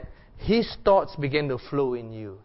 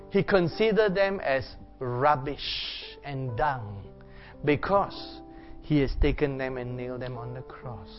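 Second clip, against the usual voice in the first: reflective preaching. Acted. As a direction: preach gently into a time of prayer. Meditative preaching over worship music.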